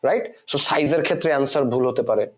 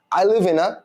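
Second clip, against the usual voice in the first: model answer; 2 semitones higher, much slower than usual. Shown as a demonstration. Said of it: "আপনি add করবেন".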